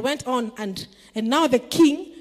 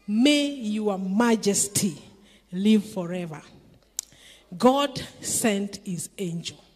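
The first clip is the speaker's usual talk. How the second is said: calm reply; 4 semitones lower, slower than usual. Acted. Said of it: "I like the way Daniel answered".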